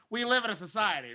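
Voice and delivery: put-on old-timey Joker. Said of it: "I do the Joker scene".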